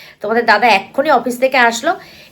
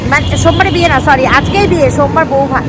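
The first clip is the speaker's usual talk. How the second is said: quick self-correction; 3 semitones higher, 5 dB louder than usual. Real, not acted. Telling viewers the date, flustered fix, not Monday but today. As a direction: correct yourself in a rush. Correcting herself about the day.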